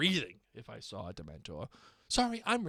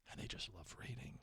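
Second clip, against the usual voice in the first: hushed, low-key sarcasm; sarcastic; 17 dB quieter than usual. Acted. Reading a listener's email about students, quietly sarcastic. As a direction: say it softly, tongue in cheek. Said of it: "I say sarcastically".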